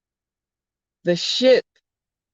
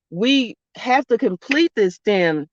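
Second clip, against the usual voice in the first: usual speaking voice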